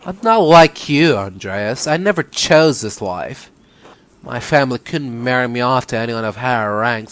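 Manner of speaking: a touch of bitterness in a woman's character voice; lightly acted aggrieved sister; lightly voiced resentful nun. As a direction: play the unwilling nun, understated.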